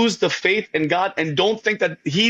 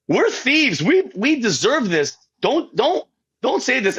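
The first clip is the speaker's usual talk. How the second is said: lightly acted, higher-pitched protest; higher, swooping voice of an indignant thief; rebuking thief; 5 semitones higher than usual. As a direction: plead in mild rebuke as the thief. Acts good thief rebuking the other.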